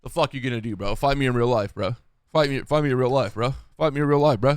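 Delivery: lightly voiced angry lobby kid; a hint of a raging online gamer; Call of Duty random. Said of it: "randoms in Call of Duty that's like".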